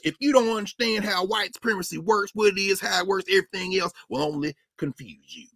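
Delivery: lightly mocked hillbilly accent; put-on hillbilly accent. Mimicking a primary opponent's newly acquired accent, mock hillbilly accent. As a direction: slip into a politician's fake hillbilly accent. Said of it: "now he got an accent like this".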